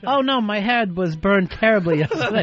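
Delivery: laughing through a mock-posh line; a hint of snooty chatter, breaking into a laugh; mocking posh friend chat. Teasing his cohost about posh small talk, laughing mock voice. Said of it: "You sit around with your friends?".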